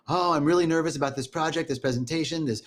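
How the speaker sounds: acted nervous worrier; a touch of fretting. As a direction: run the worries together in a mildly anxious voice. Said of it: "remember that feeling of".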